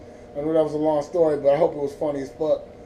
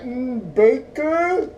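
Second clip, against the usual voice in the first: scammer's dubious answer; 8 semitones higher, much slower than usual. Retold or imitated. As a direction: exaggerate the scammer fishing for a surname. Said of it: "I can hear him like that".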